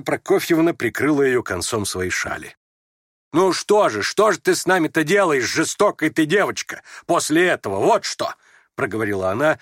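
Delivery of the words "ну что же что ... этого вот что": громче, с облегчением; журит дочь, но уже радостно; радостный упрёк. A narrator's reading. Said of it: "но уже радостно". (радостно, с облегчением)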